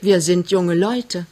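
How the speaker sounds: slow, gentle excuse. Acted. Young man appeases the girl's mother, gently. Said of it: "sagt er sanft".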